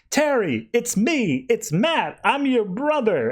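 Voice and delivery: high, pleading call to a lost brother. Retold or imitated. Matt calls out to his brainwashed brother, high and urgent.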